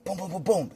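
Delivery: retold window knocking; imitated banging. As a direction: knock rapidly with your voice.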